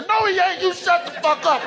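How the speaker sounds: high, indignant protest; high-pitched denial. Retold or imitated. Fan refusing Idris is British, high indignant squeal. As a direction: shriek your disbelief high.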